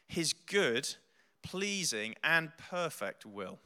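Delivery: slow, solemn Bible reading; scripture reading. Acted. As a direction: read the verses slowly and reverently. Reads scripture aloud.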